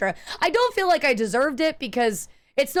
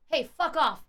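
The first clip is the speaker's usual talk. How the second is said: softer, weaselly mock jab; whiny little brat; 3 semitones higher, 5 dB quieter than usual. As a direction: mimic a timid kid cursing under his breath. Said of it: "he said it like a little bitch".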